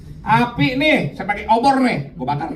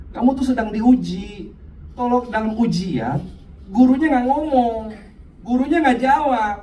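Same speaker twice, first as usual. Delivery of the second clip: Tuhan menenangkan; 4 semitones higher than usual. Acted. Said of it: "Tuhan tuh seolah-olah bilang begini". (suara Tuhan menenangkan, pelan dan sedikit dibuat-buat)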